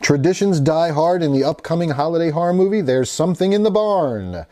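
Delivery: horror-movie news presenter delivery; news read. Real, not acted. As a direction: read it out like an entertainment news item. Reads a movie news article.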